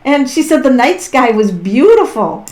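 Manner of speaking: laughing. Real, not acted. Laughing while relaying the message.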